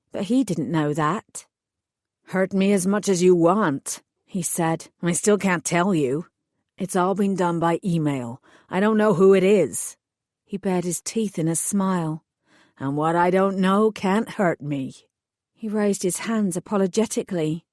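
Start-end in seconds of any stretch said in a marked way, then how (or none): 2.3-4.0 hired thug voice. Acted. Thug explains his orders to the heroine, sullen lowered voice. 5.0-10.0 hired thug voice. Acted. Thug explains his orders to the heroine, sullen lowered voice. 12.8-15.1 hired thug voice. Acted. Thug explains his orders to the heroine, sullen lowered voice.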